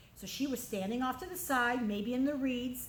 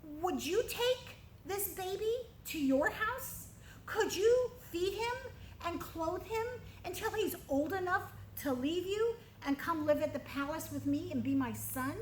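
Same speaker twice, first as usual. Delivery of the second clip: princess voice; 6 semitones higher than usual. Acted. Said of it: "she says to Jochebed".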